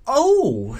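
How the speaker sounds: high, loud startled oh; slightly bewildered. A narrator's reading. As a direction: react with puzzled surprise. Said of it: "slightly bewildered".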